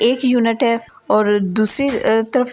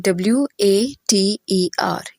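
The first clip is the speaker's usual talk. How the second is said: slow, letter-by-letter spelling; spelled out; slower than usual. Shown as a demonstration. Teacher counting the letters in a word for students, spelled out. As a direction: spell it out slowly, each letter separate. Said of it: "इसमें letters कितने हैं".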